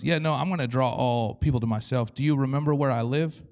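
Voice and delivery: low, matter-of-fact answer after the big prayer; understated, conversational comeback; deadpan reply from God. Acted. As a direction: answer casually, as God gently correcting. God's casual answer to loud prayer.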